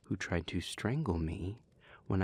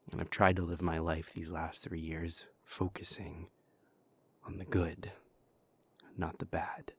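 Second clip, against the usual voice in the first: whispering. Acted. Speaker confides about Porter in a whisper. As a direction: breathe the words out, close and private.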